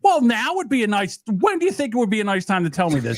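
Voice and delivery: high-pitched exasperation; exasperated complaint. Real, not acted. Scolds friend for warning too late.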